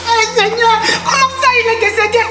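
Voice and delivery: shocked disbelief. Acted. Widow hears husband died.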